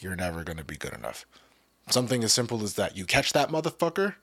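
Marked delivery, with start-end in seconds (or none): 0.0-1.3 soft, fast, hushed inner voice; whisper. Pretend. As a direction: murmur it like a nagging doubt in your head. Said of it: "let's say it's like a whisper".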